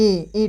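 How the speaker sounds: softly sounded ई with a nasal ring; nasalised ee. Shown as a demonstration. Teacher showing the vowel's sound, soft nasal ई. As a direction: say ई quietly through the nose. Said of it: "type से".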